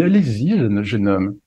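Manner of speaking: lightly put-on posh gentleman; silly pompous voice. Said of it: "continuer à prendre cette voix débile".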